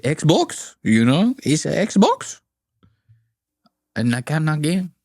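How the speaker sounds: mock Latino accent, each phrase lifting; imitated Latino gamer accent; heavy accent imitation. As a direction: gripe in a put-on Latino accent. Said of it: "The guys with the heavy accent, they say".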